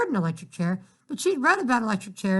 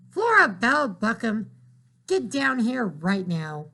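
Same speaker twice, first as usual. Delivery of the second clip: calling out; 2 semitones higher, slower than usual. Acted. Mother calling daughter downstairs.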